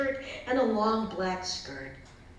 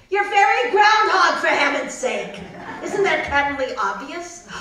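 indignant groundhog; 4 semitones higher, 7 dB louder than usual. Acted.

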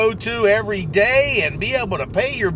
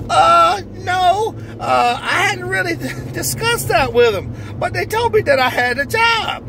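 overjoyed new hire; 6 semitones higher than usual. Acted. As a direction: squeal it out like the happiest man alive. Character answers the interviewer.

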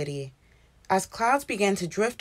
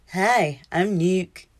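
atom voice; 3 dB louder, slower than usual. A narrator's reading. Atom introduces himself.

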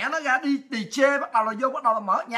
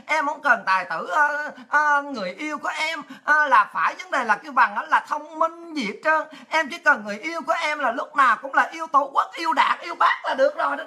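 mock young girl; 3 semitones higher than usual. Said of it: "Đó, cái con nhỏ bên kia".

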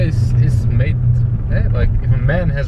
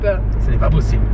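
put-on French accent; 6 semitones higher than usual. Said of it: "speaking in a French accent all morning".

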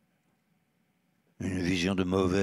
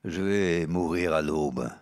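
very composed; slower than usual. Acted. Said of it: "très sage".

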